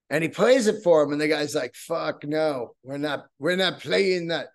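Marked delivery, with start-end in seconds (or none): 1.7-4.5 lightly put-on, hammy Caribbean accent; bad Caribbean accent. Band's head guy refusing the cover, in a bad Caribbean accent. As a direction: attempt a Caribbean accent, badly. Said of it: "That's my horrible Caribbean accent".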